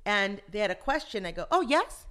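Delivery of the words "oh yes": put-on bright, high Valley girl reply; chirpy Valley girl "yes". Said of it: "You sound like a Valley girl".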